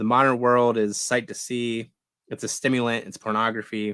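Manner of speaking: ordinary talk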